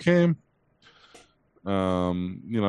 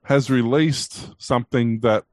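sarcastic drawl; much slower than usual. Real, not acted. Sarcastic about old feature.

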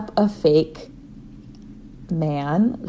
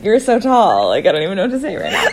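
flustered gushing; 5 dB louder, faster than usual. Retold or imitated. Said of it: "she's like".

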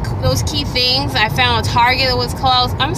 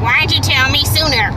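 mimicking an irritated attendant; mildly hammed-up scolding; mock snotty yelling; 3 semitones higher than usual. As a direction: imitate someone snapping, without really yelling. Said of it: "he ends up yelling at me".

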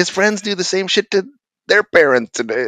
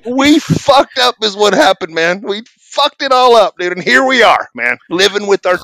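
near-tears lament; 6 semitones higher than usual. Retold or imitated. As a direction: wail it in mock new-parent despair. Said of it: "about to cry".

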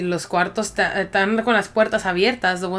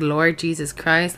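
mock prayer; slower than usual. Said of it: "I started praying".

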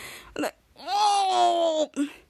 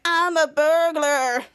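mock burglar voice; much slower than usual. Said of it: "he does the little thing".

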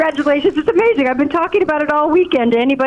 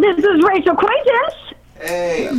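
slow, drawn-out mock Southern hillbilly accent; 5 semitones higher, much slower than usual. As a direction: stretch the words in a put-on Southern hillbilly accent. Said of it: "Why are you talking like you're some southern, southern hillbilly".

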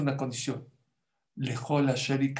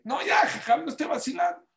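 mock child voice; 12 semitones higher than usual. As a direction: chirp it like an eager pupil.

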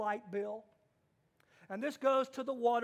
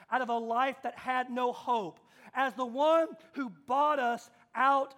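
louder with each as the one who; preacher driving the point home; rising sermon refrain; 4 dB louder than usual. Real, not acted. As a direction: build the refrain with rising force. Preacher's building repeated refrain.

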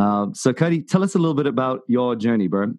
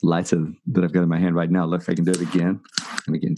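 pipe in mouth; 3 semitones lower than usual. Real, not acted. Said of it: "that sound was me lighting my pipe".

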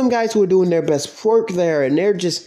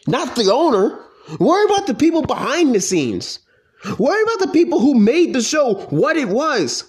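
raised, heated demands; real frustration pouring out; pissed off rant; 5 semitones higher than usual. Real, not acted. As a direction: hammer each question, fed up and angry. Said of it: "I can't even speak 'cause I'm that pissed".

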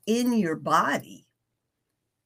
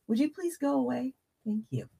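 fast, higher, shooing the dog; exasperated; 6 semitones higher, 6 dB quieter, faster than usual. Real, not acted. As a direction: brush off a pushy pet. Shooing her dog away.

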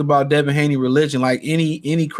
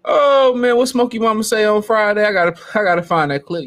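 normal talking voice

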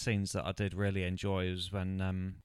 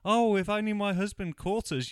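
much higher, breathy-sounding fake passion, hammed up; mock swooning wife; 11 semitones higher, 6 dB louder than usual. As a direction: coo it like a melodramatic wife. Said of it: "she's like".

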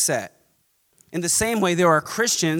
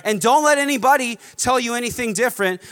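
emphatic preaching; 3 dB louder than usual. Acted. Emphatic preaching run, slow.

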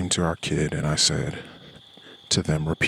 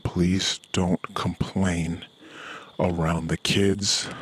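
slow and deliberate; much slower than usual. Retold or imitated. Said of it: "Her perspective of what I said".

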